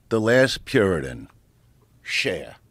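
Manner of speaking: low-key run-through of a stage intro; understated announcer at rehearsal; rehearsed introduction. Retold or imitated. Rehearsing the introduction, hitting his mark.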